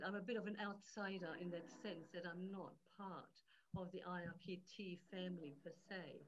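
faint, distant mic voice; speaking too far from the mic; barely audible. Real, not acted. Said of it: "your voice is very faint".

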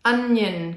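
Onion with a held n at the end; stretched final n. Shown as a demonstration. Therapist models Onion for a child, final n stretched. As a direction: lean on the n of Onion. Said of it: "Can you hear my n?".

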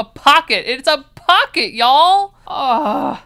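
high, loud gush of delight; thrilled squeal. Real, not acted. Showing viewers the pocket, a thrilled loud squeal. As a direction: squeal it like the best news ever.

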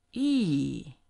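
E dropping sharply; fourth tone e. Shown as a demonstration. Teacher models the falling fourth tone.

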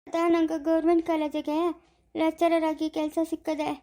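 good news told with hurt; a touch of sorrow in the telling; pained. Acted. Grandson telling family about a lecturer job, pained. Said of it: "ಇಷ್ಟು ನೋವಾಗಿ ಹೇಳ್ತಾ ಇರೋದ್ ನೀನು?".

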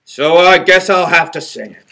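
plain reading voice

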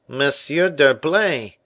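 high, loud, drawn-out exclamation; startled cry. A narrator's reading. Tailor recognises Aramis at the door, crying out. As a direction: cry out the name in surprise. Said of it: "cried the tailor".

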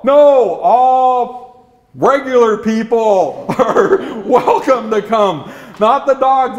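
acted exasperated correction; firm refusal. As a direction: put your foot down, half laughing. Leader refuses the dogs entry.

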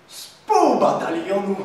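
usual speaking voice

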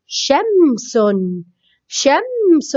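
شمس said slowly with a held m; sounded-out word. Shown as a demonstration. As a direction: stretch the middle of شمس. Teacher sounds out example word. (نطق متأنٍ لكلمة شمس مع مد الميم)

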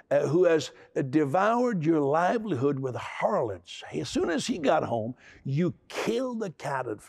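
a mild accusing tone, slowed; accusatory older brother. Acted. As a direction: point the finger at the father, not too hard. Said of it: "in an accusatory manner".

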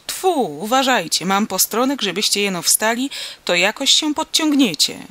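rally him to stand and be hauled up; forceful, practical urging; urgent instruction. A narrator's reading. Farmer instructs man with rope.

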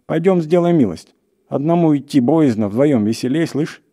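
high, loud urging; urgent shouting. A narrator's reading. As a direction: press a frightened companion to come. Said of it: "закричал охотник".

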